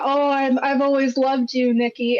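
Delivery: a hint of guileless devotion, mildly put on; innocent little guy. Movie fan imitating the character confessing love, lightly innocent. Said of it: "like, this innocent little guy".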